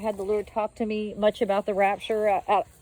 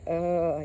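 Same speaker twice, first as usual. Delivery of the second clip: low, soft imitated moan; quiet moan; 4 semitones lower, 3 dB quieter than usual. Dreamer imitating a moan heard in the rocks, quiet moan. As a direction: softly imitate a drawn-out moan. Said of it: "this really quiet moan".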